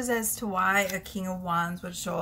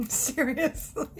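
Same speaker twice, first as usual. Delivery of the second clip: giggling; 5 semitones higher, slower than usual. Real, not acted. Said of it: "I can't stop giggling".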